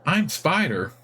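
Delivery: simple cheerful creature introducing itself; friendly spider. Acted. Guard spider introducing itself, chirpy and high. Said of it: "It bounces up and down".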